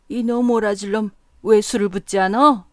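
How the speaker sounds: put-on loud drunken scolding; scolding yell. A narrator's reading. Drunk man to the serving boy, loud angry scolding. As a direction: bawl out the boy for not pouring. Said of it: "하고 야단을 쳤다".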